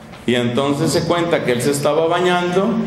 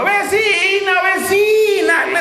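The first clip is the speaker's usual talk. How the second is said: shouting to neighbours; slower than usual. Acted. Woman who found the coin calls her neighbours: excited shout. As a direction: call out across the street, voice shaking with joy. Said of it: "a grito herido".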